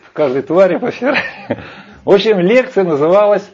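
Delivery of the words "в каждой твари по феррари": quick, laughing repeat. Real, not acted. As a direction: laugh through the punchline.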